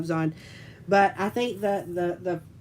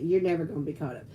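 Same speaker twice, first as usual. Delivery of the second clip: nagging kits; 6 semitones lower, 3 dB quieter, much faster than usual. Retold or imitated. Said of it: "that's when they say".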